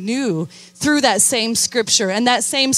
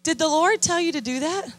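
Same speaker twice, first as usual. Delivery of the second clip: gently asking; 6 semitones higher than usual. Retold or imitated. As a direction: ask it tenderly, like a caring mentor. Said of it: "But very gently, I say".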